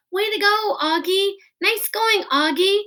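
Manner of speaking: high, loud congratulations; cheering kids. A narrator's reading. Classmates praising Auggie, high excited cheers. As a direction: cheer him on as he passes.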